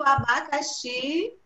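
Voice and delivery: "abacaxi" said slowly, leaning on abacaXI; stress on final XI. Shown as a demonstration. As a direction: draw out the last syllable XI in "abacaxi". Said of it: "a sílaba mais forte".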